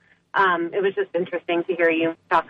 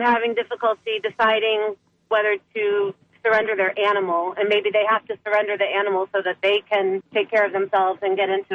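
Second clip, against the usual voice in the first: clipped phone line. Real, not acted. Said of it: "I'm calling from my car".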